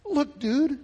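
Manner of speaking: high-pitched exasperated protest; exasperated father. Acted. Desperate dad answering Jesus's flack, exasperated. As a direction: pitch it way up, pleading for patience.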